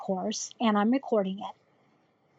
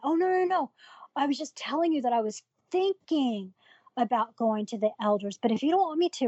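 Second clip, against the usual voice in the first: higher-pitched imitation of a protesting mom; retold flustered denial, pitch jumping up; hasty backpedalling; 3 semitones higher than usual. Mom backpedals to angry daughter, imitated flustered protest. Mother backpedalling when confronted.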